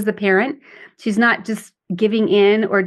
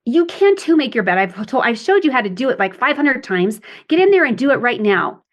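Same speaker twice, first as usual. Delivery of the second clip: a mildly raised nagging mom; critical parent. Shown as a demonstration. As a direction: snap back at the whining child. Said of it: "someone who bought into it".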